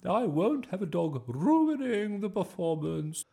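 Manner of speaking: high, loud, outraged refusal; snapping. A narrator's reading. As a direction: lay down the law, stretching words in outrage. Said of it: "snapped Miss Boot".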